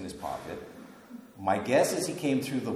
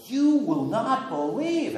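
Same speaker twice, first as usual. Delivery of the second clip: excited disciples; 11 semitones higher, 6 dB louder, slower than usual. Retold or imitated. Disciples excitedly telling Thomas.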